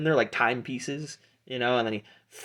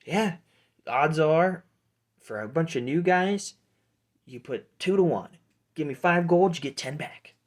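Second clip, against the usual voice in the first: higher-pitched halfling bookie; Pete; 6 semitones higher than usual. Acted. Halfling bookie quoting odds to new fighters, hustler's voice. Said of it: "Pete pulls out his coin purse and goes".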